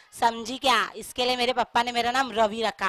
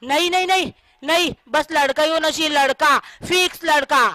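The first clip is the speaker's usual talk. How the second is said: insistent, raised refusal; adamant husband; 3 semitones higher, 3 dB louder than usual. Acted. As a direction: dig in and demand it.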